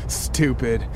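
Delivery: lightly dramatic storytelling; story narration. Acted. Host casts co-host as a door key, lightly dramatic story narration. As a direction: narrate it as a suspenseful tale told to the listener. Tells a second-person scene.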